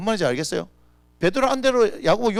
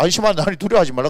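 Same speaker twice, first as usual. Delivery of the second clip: emphatic quote; 2 semitones higher, 7 dB louder, faster than usual. Acted. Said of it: "하잖아요".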